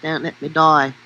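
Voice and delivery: mock Australian plea; Australian accent. Co-host retrying the dying Autobot's line, mock Australian accent. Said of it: "I can do a way better Australian accent for that".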